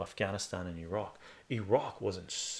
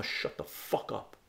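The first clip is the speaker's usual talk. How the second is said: hissed dismissal; slower than usual. Retold or imitated. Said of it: "I said".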